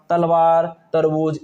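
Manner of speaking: तलवार, तरबूज with a soft dental T, tongue on the teeth; wrong soft t. Shown as a demonstration. Teacher giving students examples of the T sound to avoid. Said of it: "ता की आवाज़ नहीं निकालेंगे".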